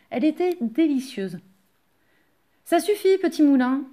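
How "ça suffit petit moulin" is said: high, loud order; raised-voice command; calling a halt. A narrator's reading. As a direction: call out to stop the mill. Yvon orders the mill to stop.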